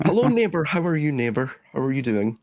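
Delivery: high sing-song hello, neighbour; overly cheery neighbour greeting; a Scot's high, cheery mock American greeting; mock friendly greeting. Shown as a demonstration. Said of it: "I'll just say neighbour".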